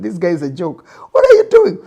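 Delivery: mock Moses like a court joker; mocking laugh. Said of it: "He must have laughed together with these guys".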